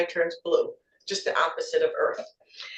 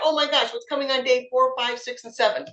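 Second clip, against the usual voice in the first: retold surprise; 4 semitones higher than usual. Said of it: "I thought".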